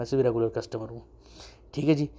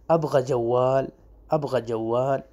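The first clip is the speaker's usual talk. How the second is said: slow demo; much slower than usual. Shown as a demonstration. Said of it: "آہستہ بولتا ہوں میں".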